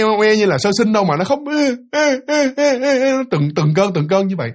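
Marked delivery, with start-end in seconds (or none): 0.0-3.1 rising mock crying "ê, ê" up high; mimicked baby wail. Narrator mimics a child crying next door. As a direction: imitate a toddler wailing in bursts. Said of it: "kiểu như không phải là con nít mà".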